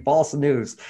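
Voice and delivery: hammed-up jab at the slogan, voice lifting then settling; president impression. Speaker mocks the president repeating fake news, lightly imitating. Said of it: "our great president in America saying".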